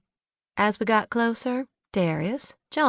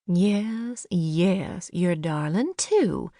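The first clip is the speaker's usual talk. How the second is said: soothing to the dog; 2 semitones lower, much slower than usual. A narrator's reading. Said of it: "said Grace".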